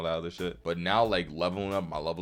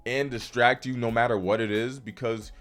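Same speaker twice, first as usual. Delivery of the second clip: heated, exasperated rant; getting mad; 4 semitones higher than usual. Real, not acted. Creator telling off viewers who make excuses, mad. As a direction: scold the viewer with rising impatience. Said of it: "I had to get mad right there".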